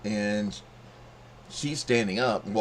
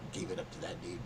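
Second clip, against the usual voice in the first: imitating her thoughts; 4 semitones lower, 13 dB quieter, faster than usual. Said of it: "it's like".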